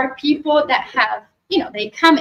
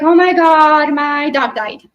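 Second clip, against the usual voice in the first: mock upset friend; 3 semitones higher, 5 dB louder, slower than usual. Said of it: "they're sobbing at the phone".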